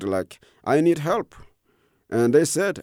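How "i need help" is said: high, yelled call for help; yelled plea. Retold or imitated. Refugee calling to strangers, mild mock yell. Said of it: "I yelled".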